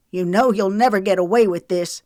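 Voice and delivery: confident. A narrator's reading. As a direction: bluff with false confidence. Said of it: "Rayford stated with more confidence than he felt".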